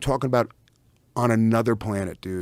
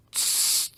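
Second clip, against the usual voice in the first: imitated squirt hiss; 6 dB quieter than usual. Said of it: "and I went".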